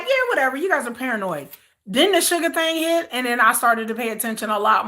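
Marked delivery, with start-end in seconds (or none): 0.0-1.5 dismissive. Retold or imitated. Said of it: "I was like".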